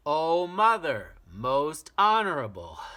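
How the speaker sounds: put-on a small boy begging his mother to listen; little boy pleading. Boy after deep breath.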